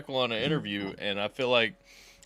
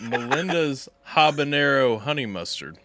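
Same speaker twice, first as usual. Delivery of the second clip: laughing; 5 dB louder than usual. Real, not acted. Eating nuggets, laughing.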